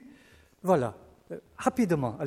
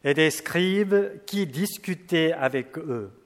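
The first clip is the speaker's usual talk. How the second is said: measured, solemn Bible reading; scripture reading; 2 semitones higher than usual. Acted. Preacher reads the Gospel to the congregation, solemnly. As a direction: read the passage like a lector.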